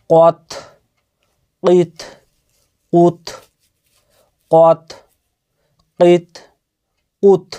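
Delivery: কত, কিত, কুত with the final ত released in a short bouncing echo; qalqalah bounce. Shown as a demonstration. Teacher drills qalqalah on ত for students, bounced release. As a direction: bounce the closing ত of কত like a reciter. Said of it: "হুরফে কলকলার যে পাঁচটি অক্ষর".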